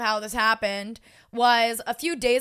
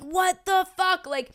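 incredulous, raised-pitch replay; retold startled reaction; 7 semitones higher, 4 dB louder than usual. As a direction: act out being startled by pounding. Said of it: "Scared the shit out of me".

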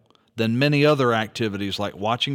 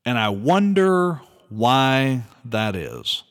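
slow, drawn-out mock puzzlement; sarcastic wondering. Shown as a demonstration. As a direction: wonder aloud sarcastically, stretching the words. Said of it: "I say that very sarcastically".

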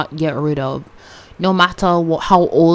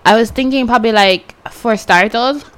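talking between sips of juice; words around a sip of drink; while sipping a drink; 4 semitones higher than usual. Real, not acted. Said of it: "I'm drinking mango peach juice at the same time".

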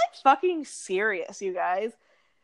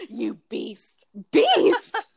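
shrill reality fight yell; 5 dB louder, much slower than usual. Retold or imitated. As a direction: shriek beast like a reality star. Reenacting Lisa Rinna yelling beast.

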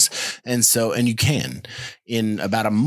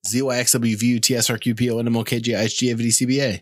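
backwards speech; faster than usual. Shown as a demonstration. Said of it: "just learn it".

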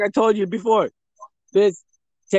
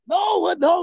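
higher, puzzled denial; kid's confused reply; 13 semitones higher, slower than usual. Retold or imitated. Voicing his kids answering him, higher and puzzled. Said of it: "They're like".

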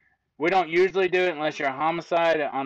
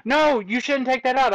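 higher, whiny mock complaint; mock upset commenter; 9 semitones higher than usual. Pathologist mocking TikTok commenters, higher indignant voice. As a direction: play the offended viewer, pitched up.

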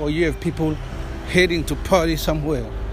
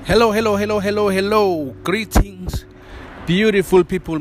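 excited greeting; 5 semitones higher, 4 dB louder than usual. Real, not acted. Vlog host greeting viewers loudly.

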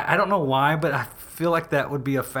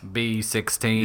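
bingo caller; 4 semitones lower, much slower than usual. Pretend. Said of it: "be the bingo caller".

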